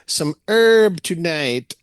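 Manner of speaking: slow, high Jamaican drawl; Jamaican accent. Retold or imitated. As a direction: lay back and play the beach vendor in a Jamaican accent. Voicing the beach seller Lionel.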